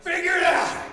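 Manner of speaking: loud, high cheer through the window; root for him like a sports fan; hammed-up encouragement; mock cheering. Cheering mechanic from plane window.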